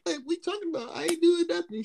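high-pitched mock innocence; defensive denial. Retelling his answer to the girl, defensive. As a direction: protest it in a high voice. Retold denial when caught laughing.

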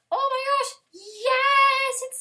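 high loud singsong joy; singsong squeal. Real, not acted. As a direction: sing out your delight. Delight, sung yes.

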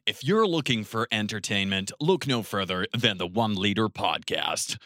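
measured American presenter; lightly put-on announcer read; well-paced news anchor. Shown as a demonstration. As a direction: deliver the promo evenly, like an anchor. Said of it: "they would pace it better".

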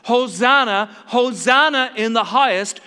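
loud, ringing hosanna; crowd shout. Retold or imitated. Preacher voicing the palm-day crowd, loud joyful shout. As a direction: cry it out like a jubilant crowd. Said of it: "they begin to shout at the top of their voices".

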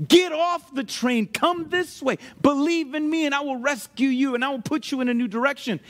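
high, urgent call to safety, easing off; rescuer calling out. Acted. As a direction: call them off a doomed train, voice lifted.

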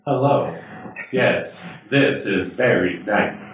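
slow synthetic computer voice; robot voice. Pretend. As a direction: Microsoft Sam style robot. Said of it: "Does it have a robot voice like, uh, Microsoft Sam?".

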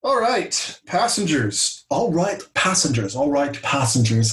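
lightly voiced Christopher Walken passengers call; a hint of a celebrity mimic, hailing passengers; Christopher Walken impression. Podcast host hailing passengers, lightly doing Walken. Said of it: "Saying it like Joaquin ... Christopher Walken".

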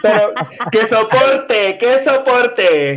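slow, stretched mock drawl of the trendy girls; a hint of teasing girl-talk parody; mocking valley-girl talk. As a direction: lightly imitate how those girls talk, dragging it out. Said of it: "porque hablan así".

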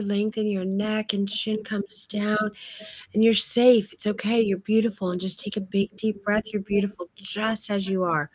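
slowed, reassuring coaching voice; soothing posing direction. Shown as a demonstration. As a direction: coax the client to surrender and relax. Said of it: "I'm talking to somebody in that tone".

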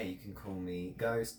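put-on amateur Australian accent; shaky-skilled Australian accent. Dark elf introducing himself in an amateur Australian accent. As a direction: try an imperfect Australian accent. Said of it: "I'm not actually good at an Australian accent".

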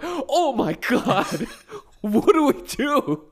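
a hammed-up player losing his nerve; mock panic. Sixers players stopped on a post-up, mock panic.

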